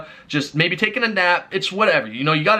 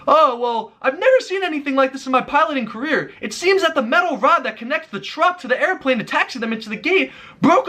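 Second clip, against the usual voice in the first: captain announcement; 7 semitones higher than usual. Retold or imitated. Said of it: "the captain goes on the loudspeaker and goes".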